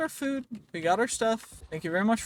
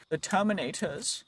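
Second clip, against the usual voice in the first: badly faked accent on Terminators; a hint of a botched accent; awful put-on accent. Gamer announcing who to call, in an awful put-on accent. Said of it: "That was an awful accent".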